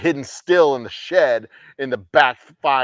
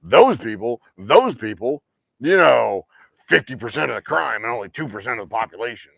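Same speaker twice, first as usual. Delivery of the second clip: louder insistent mock bigot; mock racist talking point; 5 dB louder than usual. Mocking a bigot reciting crime statistics, insistent. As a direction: hammer the repeated phrase like a bigot. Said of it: "being all like".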